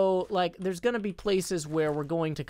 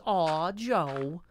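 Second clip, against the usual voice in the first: imitating an Australian friend, badly; attempted Australian accent. Streamer imitating Pearl's reply, poor Australian accent. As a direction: try an Australian accent and miss. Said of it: "like, the accent".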